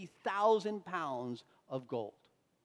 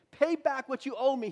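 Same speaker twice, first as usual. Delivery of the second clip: louder, higher angry demand; harsh demand; 5 semitones higher, 5 dB louder than usual. Acted. Servant chokes his fellow servant, loud angry demand. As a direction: grab him and demand the money. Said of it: "he demanded".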